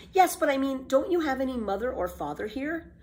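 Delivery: put-on high, delighted little girl; eager girl Annika. Annika agrees to breakfast, high delighted girl voice. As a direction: jump at the idea.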